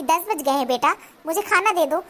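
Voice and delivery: a mild, affectionate ask, gently spoken; daughter-in-law shows her mother-in-law the kind way to ask; lovingly. Shown as a demonstration. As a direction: show how it should sound said kindly. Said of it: "अगर वो आप मुझे प्यार से बोलती कि".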